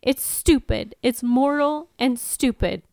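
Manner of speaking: fighting not to cry, confused grief; Anya's grieving outburst, near tears; holding back tears. Acted. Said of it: "I am trying not to cry".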